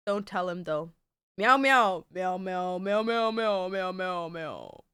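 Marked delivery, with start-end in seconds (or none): 1.4-2.0 playful meowing. Pretend. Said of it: "meowing at her cat". 2.1-4.8 gentle mewing that fades away; soft cat meows. Pretend. Streamer meowing softly to her cat on her lap. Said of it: "meowing at her cat".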